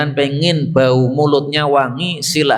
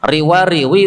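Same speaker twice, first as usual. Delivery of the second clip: "Riwariwi" punched louder with a rise; emphatic contrast word; 4 semitones higher, 4 dB louder than usual. Shown as a demonstration. Preacher contrasting the two Javanese words, stressed. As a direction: hit "Riwariwi" to set it against the other. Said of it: "Satunya Jawa Tengah, satunya Jawa, Jawa Timur".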